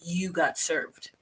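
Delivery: softly whispered, slowed-down punchline; imitating a sly whispered dig; whispered quip. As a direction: breathe it as a sly aside. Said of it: "And she's like".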